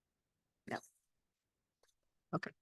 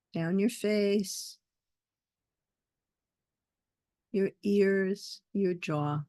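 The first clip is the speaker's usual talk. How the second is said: guided meditation. Acted. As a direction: lead them gently into the breath, unhurried.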